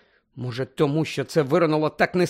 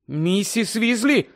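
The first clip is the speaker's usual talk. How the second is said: high, slow called name; calling out; 6 semitones higher, slower than usual. Acted. Harry calling Mrs Weasley from the doorway, high. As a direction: call her name across the room. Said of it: "погукав Гаррі".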